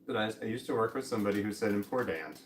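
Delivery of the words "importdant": "important" said as "im-por-dant"; coworker's D pronunciation. Retold or imitated. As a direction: put a D for the T in "important". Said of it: "it was, it was a D".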